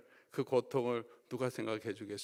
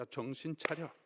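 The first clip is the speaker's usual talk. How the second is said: rebuking. Retold or imitated. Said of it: "막 책망하십니다".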